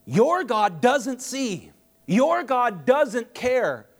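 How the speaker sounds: slow, emphatic voice of God; God speaking. Acted. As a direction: draw out each pronouncement as God. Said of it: "as if God's saying".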